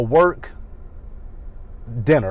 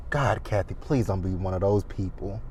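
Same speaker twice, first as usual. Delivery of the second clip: pleading; 4 semitones lower, 7 dB quieter than usual. Retold or imitated. Retold private plea to Kathy.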